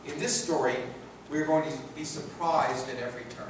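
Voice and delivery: measured, earnest book-reading voice; reading from his book. Acted. Lecturer to the audience, reading his book in a measured way. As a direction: read the passage aloud like a public reading.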